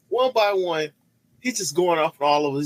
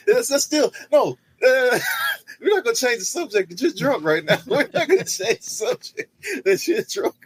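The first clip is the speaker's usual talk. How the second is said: laughing scolding; 8 semitones higher than usual. Real, not acted. Laughing, scolding drunk friend.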